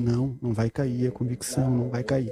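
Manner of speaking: normal talking voice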